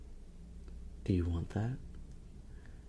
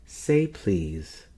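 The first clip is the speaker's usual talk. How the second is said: firmer demand; 5 dB louder than usual. Acted. Repeats as cannot hear.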